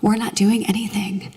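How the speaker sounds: lightly voiced restless inner voice, quick and chatty; a hint of a fidgety inner monologue; chattering mind. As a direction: play the bored mind rambling on. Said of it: "your mind's gonna be like".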